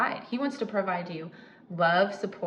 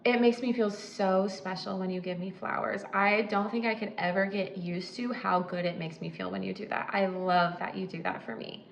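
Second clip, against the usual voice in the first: sincere appreciation. Retold or imitated. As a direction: thank him sincerely for the flowers. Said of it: "and go".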